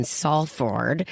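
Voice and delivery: Salford with a clearly sounded R; American-style "Salford", R pronounced; American pronunciation. Real, not acted. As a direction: say "Salford" ending in a full "-ford". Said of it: "not Salford".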